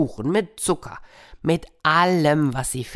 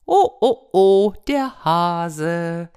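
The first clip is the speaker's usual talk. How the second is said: louder mocking animal voice; gloating animals; 4 dB louder than usual. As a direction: gloat over the captured hare. Animals gloat over hare.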